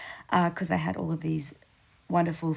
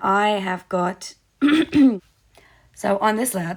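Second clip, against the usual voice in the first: very loud voice, breaking and cracking; 3 semitones higher, 10 dB louder than usual. Describing a layout with two journaling cards, voice cracking. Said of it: "my voice just cracked there for a moment".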